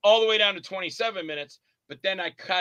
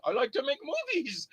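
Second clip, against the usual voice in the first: modest; 8 semitones higher, 6 dB quieter than usual. Retold or imitated. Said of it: "He goes".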